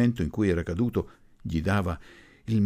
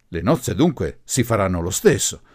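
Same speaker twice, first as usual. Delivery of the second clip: louder, mildly brightening question; suddenly cheered; 7 dB louder than usual. A narrator's reading. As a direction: perk up a little at the news. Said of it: "rallegrandosi improvvisamente". (domanda un po' rallegrata, più forte)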